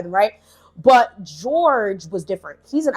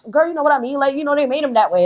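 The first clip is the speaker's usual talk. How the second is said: mom voiced; 6 semitones higher, faster than usual. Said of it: "my mom's like".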